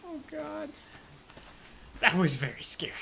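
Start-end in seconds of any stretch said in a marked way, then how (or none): 0.1-0.7 sing-song. Real, not acted. High slow sing-song lament.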